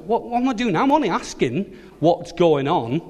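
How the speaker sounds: high-pitched, wounded protest; protesting little brother. Acted. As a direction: defend yourself to a bossy brother. David protests to his brother.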